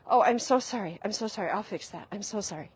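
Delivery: over-apologize as if to calm a partner; fawning apology. Retold or imitated. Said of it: "of fawning".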